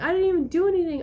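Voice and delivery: high, rushed mock protest; retold crying. Child still crying to mom, protesting innocence. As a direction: imitate a tearful kid insisting on innocence. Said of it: "and I'm still crying".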